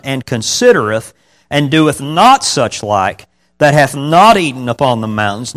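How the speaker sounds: emphatic scripture reading aloud. Real, not acted. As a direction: read the verses out firmly to a congregation.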